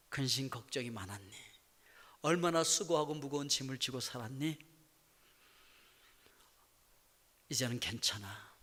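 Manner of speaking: soft, low, hushed reassurance, sinking to a whisper; the Lord consoles his tired child in a low soft murmur; tender comforting Lord. Pretend. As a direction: comfort the weary one gently, almost whispering. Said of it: "주님께서 그렇게 말씀하십니다".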